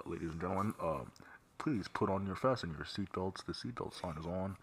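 soft announcer voice over the intercom; flight attendant. Retold or imitated. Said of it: "be like".

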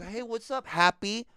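calling out a dwarf name. Retold or imitated. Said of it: "That's what I was".

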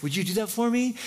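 high-pitched pampered husband voice; Ahab. Retold or imitated. Sulking king asks his wife for the favor, high mock-hopeful. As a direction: ask it high, like a spoiled child. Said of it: "And he's like".

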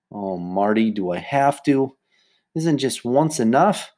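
slow, dragged-out plea; reluctant whining. Acted. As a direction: drag the words, begging out of it. Sheila whines about more practice.

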